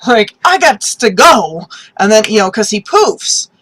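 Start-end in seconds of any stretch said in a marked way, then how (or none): 0.1-1.7 panicked yell, high and loud, slow; hammed-up panicked shout; freaked out. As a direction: shriek like a god who has to flee now. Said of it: "freaked out visually".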